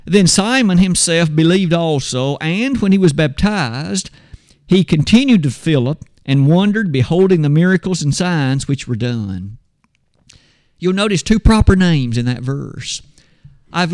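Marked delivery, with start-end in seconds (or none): 0.1-9.6 scripture reading. Shown as a demonstration. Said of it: "the Bible reads that verse like this".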